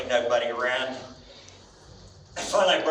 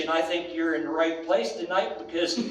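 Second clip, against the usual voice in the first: building boast; 5 semitones higher than usual. Retold or imitated. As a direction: start easy, then crow the name. Teller's punchline boast to Lillian.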